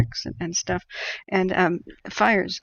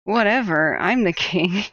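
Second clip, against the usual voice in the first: louder, offhand bored king; dismissive hawk voice; 6 dB louder than usual. Retold or imitated. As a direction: brush them off, loudly dismissive. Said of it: "a big hawk lands and says".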